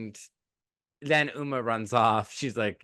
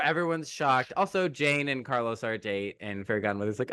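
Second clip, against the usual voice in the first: ordinary talk, nothing marked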